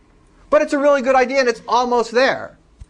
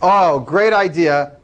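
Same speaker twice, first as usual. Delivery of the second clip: dry, drawn-out mock praise; sarcastic; 3 semitones lower, 3 dB louder, much slower than usual. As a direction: say it slowly, clearly not meaning it. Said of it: "And I'm being sarcastic".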